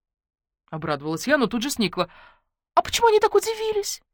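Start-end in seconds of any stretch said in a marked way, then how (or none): 2.7-4.0 much higher, fast, incredulous; suspicious surprise. Acted. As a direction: demand it, baffled. Heroine suspicious questioning. (подозрительное удивление)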